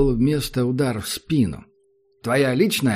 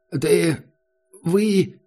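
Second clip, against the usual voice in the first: stunned, stammering; 6 semitones higher than usual. Acted. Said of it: "Он выглядел потрясённым".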